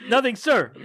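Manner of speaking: high, meek "Nothing, sir"; high timid movie quote. Retold or imitated. Same quote said again.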